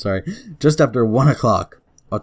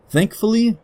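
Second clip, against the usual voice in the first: high; 12 semitones higher than usual. Acted. Fogg voiced by reader.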